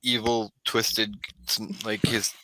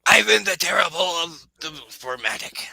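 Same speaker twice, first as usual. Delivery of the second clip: higher, louder villain wizard voice; 5 semitones higher, 4 dB louder than usual. Acted. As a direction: proclaim your title like an evil wizard. Game master voices villain introducing himself.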